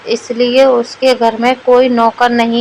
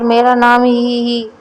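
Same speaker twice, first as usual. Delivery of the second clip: giggling through the name. Acted. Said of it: "अबे हंस काहे को रहा है?".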